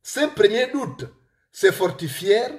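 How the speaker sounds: deliberate storytelling in a real Gabonese accent. Real, not acted. Author reads his book to listeners, Gabonese accent. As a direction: read aloud in a Gabonese accent, phrase by phrase. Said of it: "avec mon accent gabonais, mon accent de Manji".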